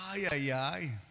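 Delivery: drawn-out "ay, ay, ay" of relish; savouring sigh. Pretend. Preacher relishing an imagined dripping mango, savouring sigh. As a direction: sigh over something delicious.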